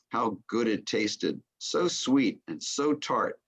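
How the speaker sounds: measured poem reading, pausing between phrases; recited list poem with falling line ends. Acted. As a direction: read each image out as its own phrase. Reads the end of the poem.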